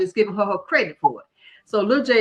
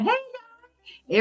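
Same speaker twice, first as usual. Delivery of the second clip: mock cheery greeting. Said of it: "So we were just talking".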